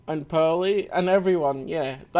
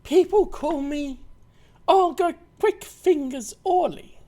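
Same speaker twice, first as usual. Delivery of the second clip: put-on Russian accent; 10 semitones higher than usual. Voicing Olga in game.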